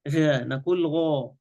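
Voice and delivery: "غا" with a full back "gho" colour; emphatic, thick vowel in "غا". Shown as a demonstration. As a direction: raise the tongue back for "غا". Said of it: "صفة استعلاء".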